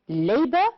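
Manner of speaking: labor, stressed on LA, list-like rise at the end; stress on first syllable. Shown as a demonstration. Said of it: "stressed on the first syllable".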